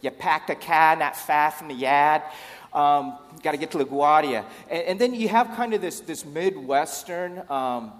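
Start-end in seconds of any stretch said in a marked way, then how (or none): 0.0-4.4 loud demo of a Northeastern US accent; North Atlantic seaboard accent. Shown as a demonstration. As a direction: put on an East Coast seaboard accent, loudly. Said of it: "You have the North Atlantic seaboard".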